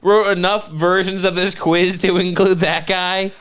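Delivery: high-pitched disbelief; real comic indignation; incredulous. Real, not acted. Incredulous argument about quiz result.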